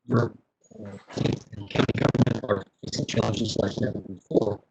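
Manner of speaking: choppy glitchy call audio; broken-up robotic call voice; voice breaking up. Real, not acted. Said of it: "your voice is breaking up".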